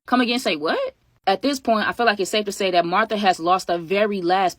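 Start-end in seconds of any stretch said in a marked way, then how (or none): 0.1-0.8 outraged disbelief. Retold or imitated. Offended disbelief at Martha.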